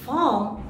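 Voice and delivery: "farm" with long ah, no r; open farm. Shown as a demonstration. Teacher contrasting two words, "farm" with open ah. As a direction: open the vowel wide in "farm". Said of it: "So one is".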